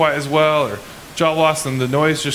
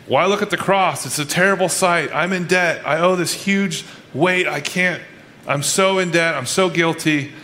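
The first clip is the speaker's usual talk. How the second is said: higher-pitched, mildly pleading retelling; lightly voiced guilty man; 4 semitones higher than usual. Preacher retelling a man's guilt at the cross, mildly anguished. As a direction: lightly act out someone burdened by guilt.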